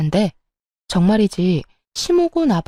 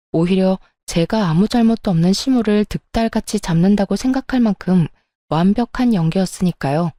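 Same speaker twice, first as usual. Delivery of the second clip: ordinary talk, nothing marked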